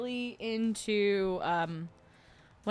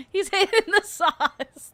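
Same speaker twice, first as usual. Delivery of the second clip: high, slow, loud silly voice; silly dog voice; 10 semitones higher, 7 dB louder, slower than usual. Retold or imitated. Joking about the dog taking the bottle, in a goofy high voice. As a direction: drag it out in a goofy squeaky voice. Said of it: "That was the big one".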